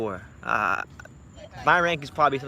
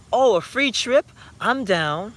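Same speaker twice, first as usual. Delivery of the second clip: high, louder imitation of her eagerness; eager acceptance; 7 semitones higher, 4 dB louder, much slower than usual. Woman accepting a free trip from him, mock eager. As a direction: jump at the offer, pitched up, mimicking her.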